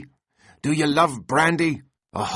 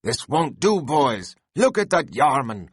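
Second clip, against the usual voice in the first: Stubb rallying the crew; 5 semitones higher than usual. A narrator's reading. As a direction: whip the crew on with hearty shouts. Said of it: "cried Stubb to his crew".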